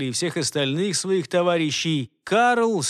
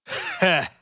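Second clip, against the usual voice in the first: insolent scoff; 3 semitones higher than usual. Acted. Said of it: "нагло усмехнулся".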